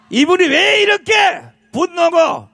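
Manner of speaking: shouting. Real, not acted. Announcing speaker's anger.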